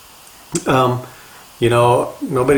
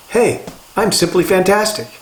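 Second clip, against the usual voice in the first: cheerful catchphrase; 6 semitones higher than usual. Retold or imitated. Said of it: "I adopted the saying".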